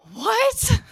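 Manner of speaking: high, loud squawk of disbelief; hammed-up stunned cry; acted shock. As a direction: shoot the pitch way up. Acted shocked reaction as she leaves.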